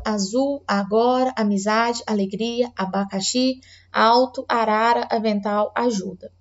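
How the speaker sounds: put-on slow, clear word-by-word reading for a child; reading a word list aloud. Shown as a demonstration. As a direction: read each word clearly, modelling for a child. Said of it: "Aí vamos lá". (leitura pausada de palavras para a criança)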